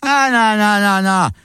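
high, outraged no no no; wife shoots him down; shocked refusal. Acted. Wife refusing husband's gifts, shocked and high.

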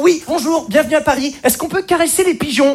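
mock innocent tourist asking sweetly; naive provincials. Provincials newly arrived in Paris, naive and cute. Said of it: "mais des questions mignonnes".

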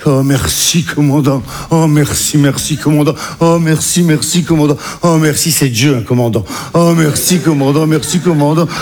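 bow and scrape to the captain; grovelling thanks. Retold or imitated.

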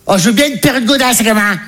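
high put-on mum voice; mother's voice. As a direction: imitate a mother asking her son for a treat. Mother answering her son, acted out.

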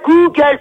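"Google" said distinctly to clear up a mishearing; articulated correction. Real, not acted. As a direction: stress "Google" so it can't be misheard. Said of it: "j'ai pas dit ta gueule".

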